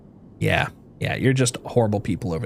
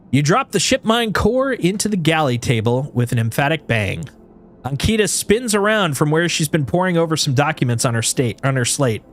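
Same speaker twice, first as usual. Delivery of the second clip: 1 story narration; 2 semitones higher than usual. A narrator's reading. Reads the game narration.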